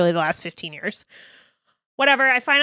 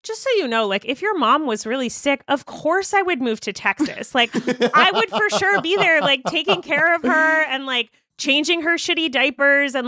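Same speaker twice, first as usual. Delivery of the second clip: eager reassurance; 6 semitones higher than usual. Retold or imitated. To her partner after the fight, eager and earnest. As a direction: rush to reassure, pitch climbing.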